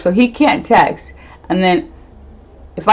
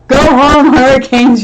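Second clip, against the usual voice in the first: mock scold; 6 semitones higher, 8 dB louder than usual.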